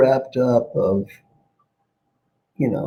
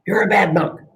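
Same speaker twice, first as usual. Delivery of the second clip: higher, accusing monk voice; mock angry scolding; 7 semitones higher than usual. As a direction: pin the blame on him, playfully. Angry monk wakes friend.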